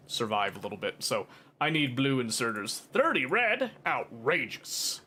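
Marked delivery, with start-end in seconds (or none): 2.8-3.7 high incredulous squeak; mock outrage. Real, not acted. Gamer balking at the recipe cost, mock disbelief. 3.8-5.0 slow, drawn-out mock outrage. Gamer scoffing at crafting costs, slow mock outrage.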